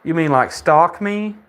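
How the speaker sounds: high-pitched mock giggle into the question; mocking laughing girl. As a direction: imitate her silly laugh, voice pitched well up. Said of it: "And then she laughs".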